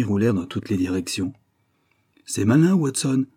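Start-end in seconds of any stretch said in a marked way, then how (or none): 2.2-3.3 higher, louder, cool reproach; cold exclamation. Acted. Holmes blaming Watson for the upset table, coldly. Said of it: "s'exclama-t-il froidement".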